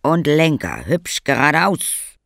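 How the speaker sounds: rally everyone onto the sleds; calling out. A narrator's reading. Papa calling the children onto the sleds, loudly. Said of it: "rief er".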